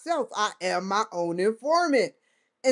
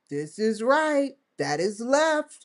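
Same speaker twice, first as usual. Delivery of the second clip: slow mocking oath; slower than usual. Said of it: "they would have gave it away if they said".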